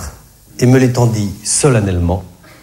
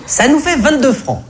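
high cashier voice; 13 semitones higher than usual. Retold or imitated.

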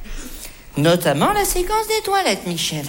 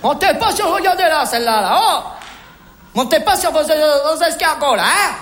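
scolding. Acted. Scolds Michel during the accusation.

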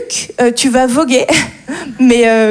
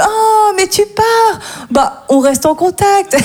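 exclamation de collègue plus aiguë, étirée; faux regret de collègue; 5 semitones higher, slower than usual. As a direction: jouer le collègue faussement triste. (une pointe de collègue faussement ému)

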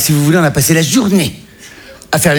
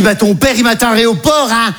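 mother's voice; 4 semitones higher than usual. Retold or imitated. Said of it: "Elle dit".

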